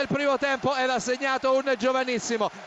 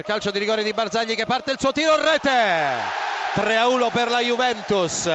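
rushed then shouted; excited goal call; 2 semitones lower than usual. Real, not acted.

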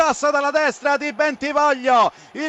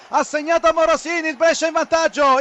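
breathless italian goal commentary. Real, not acted. Goal call on radio.

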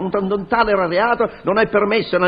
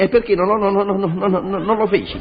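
stuttering. Acted. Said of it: "quando parla si inceppa e cacaglia".

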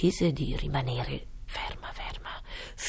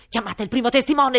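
loud, high royal command; booming king; 6 semitones higher, 10 dB louder, faster than usual. Acted. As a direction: bellow it like a pompous king. King's voice. (re tonante)

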